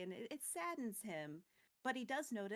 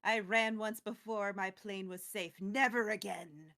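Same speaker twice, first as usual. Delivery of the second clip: resolute Teferi; 2 semitones lower, 6 dB louder than usual. Retold or imitated. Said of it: "But Teferi says".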